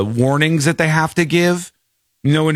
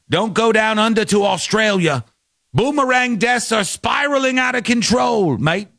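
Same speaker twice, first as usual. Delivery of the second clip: jokey Australian accent, lightly put on; an Australian accent done for a laugh; mock Australian accent; 4 semitones higher than usual. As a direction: play a mock Aussie travel warning. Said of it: "That's my Australian accent".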